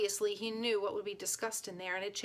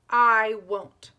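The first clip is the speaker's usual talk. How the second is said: loud, defiant refusal; a defiant boy shouting at the regent; raised voice; 11 dB louder than usual. Acted. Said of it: "Lower your voice".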